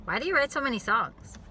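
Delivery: sharp accusing question; judging tone. Retold or imitated. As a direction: ask it as a challenge. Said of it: "how those are different questions".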